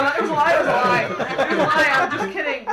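re-enacted frantic backpedaling; panicked confession. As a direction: blurt it out to undo a prank. Frantically takes back the prank.

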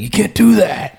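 high-pitched mock protest; protesting son. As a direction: imitate an appalled kid objecting. Son protests at father's haggling.

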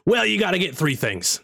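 rough impression of a famous comedian; Gilbert Gottfried. Wizard answering the adventurers, imitating Gottfried. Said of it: "sounds like Gilbert Godfrey".

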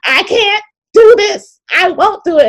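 high, strained wail, slowing down; retold breakdown. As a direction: relive the moment you broke down. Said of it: "And I just started crying".

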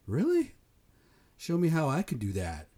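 high, sharp disbelieving "Really?"; incredulous. Real, not acted. Vlogger doubting the money story, high incredulous. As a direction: pitch it way up in disbelief.

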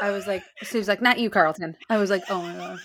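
talking through laughter; laughing. Real, not acted. Retelling the Carlton line while laughing. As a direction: giggle through the quote.

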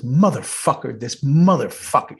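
imitated cursing grumble; lightly voiced foul-mouthed colleague; Dayton. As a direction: do a buddy's habitual cursing, lightly. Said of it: "You know the way he talks".

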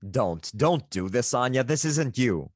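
slow, pleading stage anger; a slow, dramatic plea in a Russian accent. Acted. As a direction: drag out "don't" slowly, acting heartbroken anger. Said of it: "my more dramatic anger".

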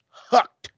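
"hucked" set apart and punched; emphatic HUCKED. Shown as a demonstration. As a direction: punch out the single word "hucked". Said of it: "I'm gonna say it like this".

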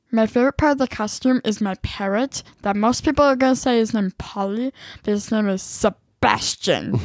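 strange put-on voice; weird voice. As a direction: keep the weird voice going. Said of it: "you can be done with the voice now".

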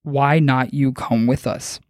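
slow, measured monotone alien; slow monotone, word by word. Retold or imitated. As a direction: lightly imitate an alien, slowly and evenly. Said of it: "said in a very monotone voice".

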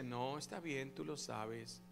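soft and low, like an inner voice; gentle murmur. A narrator's reading. Preacher voicing the Spirit's quiet inner voice, softly. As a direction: speak it quietly, close and kind. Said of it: "un susurro apacible que te dice".

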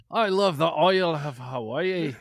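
loud, high, hammed-up Hawaiian accent. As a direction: shout it in a mock Hawaiian accent. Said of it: "That's the Hawaiian accent right here".

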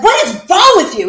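high, loud what is wrong with you; exasperated mom. Retold or imitated. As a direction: scold a son bouncing on the bed. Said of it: "I'm like".

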